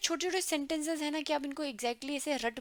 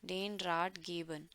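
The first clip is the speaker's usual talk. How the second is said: slow model phrase; 4 semitones lower, much slower than usual. Shown as a demonstration. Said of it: "वो कहते हैं".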